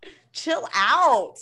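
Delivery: slow whispered disbelief; whispered what the fuck, slowly; incredulous whisper. Retold or imitated. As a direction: hiss it slow and stunned. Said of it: "I'm like".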